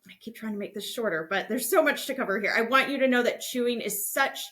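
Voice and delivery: ordinary talk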